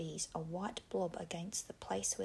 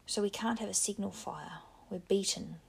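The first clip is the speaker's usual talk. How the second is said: rising louder in despair; louder, despairing protest; 3 dB louder than usual. Acted. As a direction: let the voice climb as hope fails. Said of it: "His voice rose".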